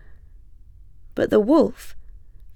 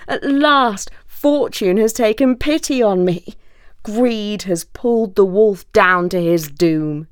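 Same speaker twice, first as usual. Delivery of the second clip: jubilant. Acted. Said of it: "and he was jubilant".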